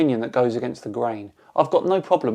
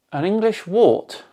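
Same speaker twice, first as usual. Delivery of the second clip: ENGLISH WART questioned in a raised, higher pitch; incredulous echo; 6 semitones higher than usual. Real, not acted. Echoes the insult in disbelief.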